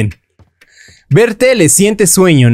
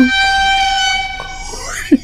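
high squealing laugh of fright; startled shriek-laugh; 7 dB quieter than usual. Real, not acted. Gamer shrieks at a jump scare, laughing.

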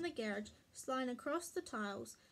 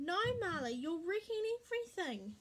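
higher-pitched exasperated protest; mild scolding; 5 semitones higher than usual. A narrator's reading. Mummy sees Marley join the fun, mild scolding. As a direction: scold the dog, understated. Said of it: "Mummy stopped smiling".

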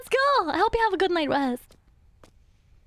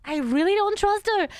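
louder insistent repeat; 3 semitones higher than usual. Shown as a demonstration.

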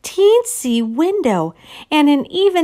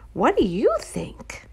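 whisper; 5 dB quieter than usual. Real, not acted. Reader whispering to the child listening, hushed. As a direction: lean in and whisper it. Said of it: "reader whispers to listener".

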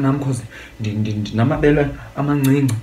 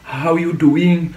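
mock morning greetings, pitched up; higher, put-on greeting with a drawn-out ending; imitated morning greeters; 5 semitones higher, slower than usual. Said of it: "Abanye abantwana bavuka".

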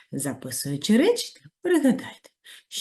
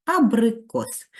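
slow reveal; 7 semitones higher, 5 dB louder, slower than usual. Shown as a demonstration. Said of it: "Це слово".

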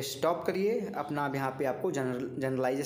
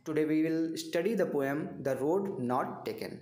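very slow, word by word; spelling it out slowly for note-taking; slow dictation; much slower than usual. Shown as a demonstration. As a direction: read it out like dictation to students. Dictating a lesson plan.

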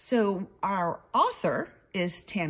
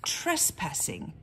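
slow reading; slower than usual. Shown as a demonstration. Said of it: "This sign says".

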